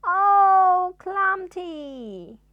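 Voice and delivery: very loud, high wail; hammed-up terror; terrified shriek. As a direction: scream in panic. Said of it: "he screamed".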